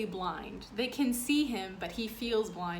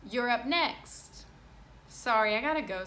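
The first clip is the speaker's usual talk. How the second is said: louder, higher call; 4 semitones higher, 6 dB louder than usual. Acted. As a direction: call him over. Playground calls.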